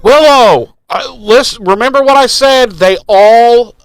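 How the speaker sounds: high, loud mocking Giles voice. Cohost mocks Giles telling Willow they hate her, high and loud. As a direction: squawk it out as a snooty know-it-all. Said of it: "he was like".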